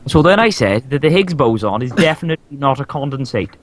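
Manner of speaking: hammed-up Welsh on a brainy statement; fake Welsh accent. Testing intellectual talk in Welsh, mock Welsh accent. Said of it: "said with a pure Welsh accent".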